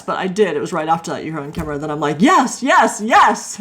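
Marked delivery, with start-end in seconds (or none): 2.2-3.6 higher, louder repeated yes; excited bride answering at last; eager yes. Retold or imitated. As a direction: say it happily over and over.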